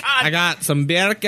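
half-successful mock Jamaican; Jamaican accent. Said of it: "I can't do it".

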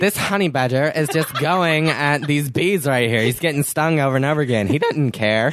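1940s announcer. Acted. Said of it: "sound like a nineteen forties announcer".

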